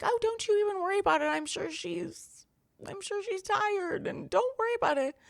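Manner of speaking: high-pitched, imitated brushing-off of worry; retold reassurance. Friend's mother brushing off worry.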